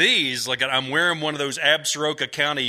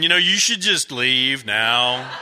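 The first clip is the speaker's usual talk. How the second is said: inner voice; 4 dB louder, slower than usual. Retold or imitated. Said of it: "that little voice in the back of my head started going".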